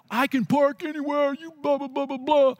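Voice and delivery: a hint of a defiant young punk talking back. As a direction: toss it back with a sneer. Rude young guy retorts defiantly.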